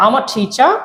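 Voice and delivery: "আমার" said as one linked "am-ah" before "টিচার"; linked collocation. Shown as a demonstration. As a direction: glide through "আমার টিচার" without breaks. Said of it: "collocation করে". ("আমার টিচার" জুড়ে একসাথে উচ্চারণ)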